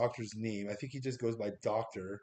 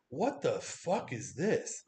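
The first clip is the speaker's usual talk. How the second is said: slow, drawn-out baffled question; stunned disbelief; much slower than usual. Retold or imitated. Recreating his theater reaction to the castle kids, slow stunned disbelief. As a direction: let each word hang in disbelief. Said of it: "genuine reaction when I see these kids".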